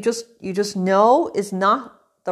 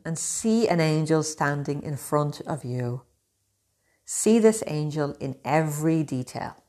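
guided meditation. Acted. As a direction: guide them gently inward.

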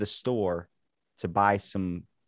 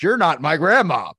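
much higher and louder outburst; loud, pitched-up mock protest; mock outrage; 8 semitones higher, 12 dB louder than usual. Mock outrage at role-play.

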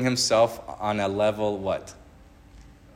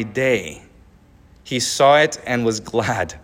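earnest, measured Bible reading; preacher reading scripture aloud; 3 dB louder than usual. Acted. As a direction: read the words of Jesus with weight. Reads Jesus' words aloud.

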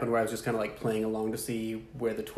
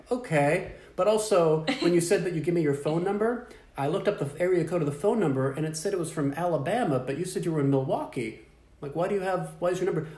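higher, sweetly naive questioning; mock innocent; 6 semitones higher than usual. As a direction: play dumb, poking holes. Acting innocent to scammer.

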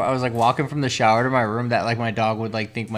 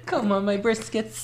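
granny voice; 9 semitones higher, 3 dB quieter than usual. Pretend. Joining the granny voice bit.

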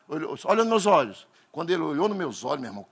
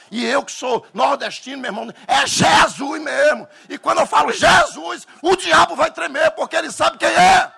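much higher and louder, shouting; fiery preaching; 10 semitones higher, 10 dB louder than usual. Real, not acted. Pastor shouts to the church that the devil trembles. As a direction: preach at full force to the crowd.

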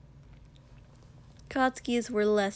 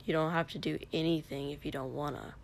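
low annoyed whisper; 5 semitones lower, 5 dB quieter, faster than usual. A narrator's reading. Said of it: "still pitching his voice low, but a little annoyed now".

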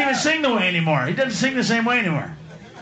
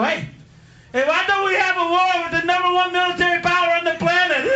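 dumb enemy planners; 7 semitones higher than usual. Retold or imitated. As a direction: shout it like a brilliant bad idea. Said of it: "got together and go".

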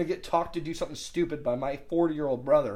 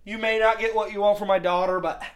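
put-on drunk dad; 6 semitones higher, 7 dB louder than usual. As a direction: imitate a tipsy father making an earnest speech. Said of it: "he's, he's drunk".

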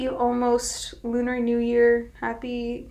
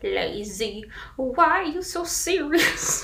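Joker impression; slower than usual. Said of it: "he's being a Joker impression".

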